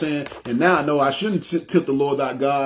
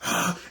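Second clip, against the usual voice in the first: imitated heavy breath; 6 dB quieter than usual. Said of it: "breathing hard".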